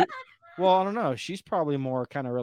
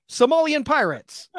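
blurted out through laughter; giggling as it comes out; laughing; 12 semitones higher, 6 dB louder than usual. Real, not acted. Laughing noun suggestion.

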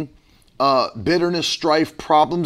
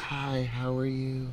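very soft, slow mock politeness; mock mild-mannered; 3 semitones lower, 13 dB quieter, slower than usual. Husband mimics people unlike their intense selves, mock mild-mannered. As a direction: imitate overly gentle people, hushed and drawn out. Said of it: "we're not those people that are like".

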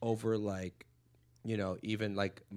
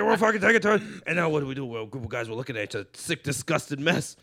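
Diaz riff, fading; 5 dB louder than usual. Retold or imitated.

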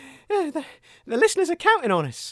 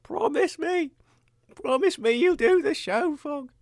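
dying last words. Acted.

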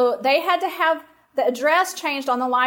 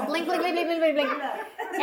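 flirty blinking; 3 semitones higher, 4 dB quieter than usual. Retold or imitated. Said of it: "blinking my little blue eyelashes".

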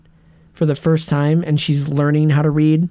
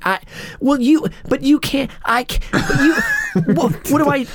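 unfinished halting sentences; 9 semitones higher than usual. Retold or imitated. Mocking the actress who never finishes her sentences, higher. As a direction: keep starting and never finishing. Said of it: "she does that thing where she never finished".

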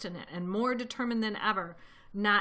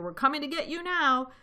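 high, raised threat; threatening yell; 7 semitones higher, 5 dB louder than usual. A narrator's reading. Bunce to Mister Fox from his tractor, yelled. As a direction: yell the warning down at him. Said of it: "yelled Bunce".

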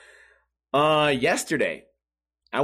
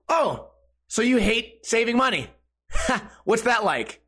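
raised, smug sneer with a laugh; smug salesman taunt; 7 semitones higher than usual. Retold or imitated. Salesman mocking the homeowner, smug and sneering. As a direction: taunt like a pushy door-to-door salesman.

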